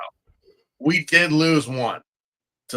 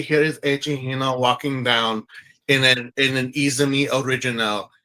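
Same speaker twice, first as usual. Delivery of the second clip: a hint of a French accent, lower and more even; light French-accent runway commentary; Frenchman voice; 3 semitones lower than usual. Host redoing the runway line in a French accent. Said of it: "I could talk like the Frenchman".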